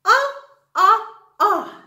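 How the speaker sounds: short open "ah" three times with a laugh; repeated "ah". Shown as a demonstration. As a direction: drill the "ah" for the class. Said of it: "O says".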